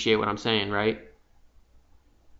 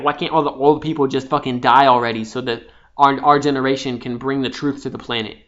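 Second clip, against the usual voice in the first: impatient frustration; 3 dB louder than usual. Retold or imitated. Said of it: "frustrated, irritated, and impatient".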